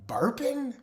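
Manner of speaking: a high, breathless whisper of disgust. Real, not acted. Listing pet peeves, he whispers the word in disgust. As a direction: recoil at the word in a hushed gasp.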